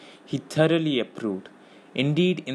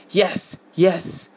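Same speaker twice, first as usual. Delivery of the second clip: high squeal as if stabbed; squealing Gollum; 7 semitones higher, 3 dB louder than usual. A narrator's reading. Gollum squealing at Faramir in sudden pain. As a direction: yelp the words like a wounded creature. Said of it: "he squealed as if something had stabbed him".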